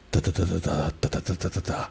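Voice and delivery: "da da da" in identical even beats; every "da" equally timed, no swing; even, straight rhythm. Shown as a demonstration. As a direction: tap out "da da da" all in the same rhythm. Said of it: "It's all the same rhythm".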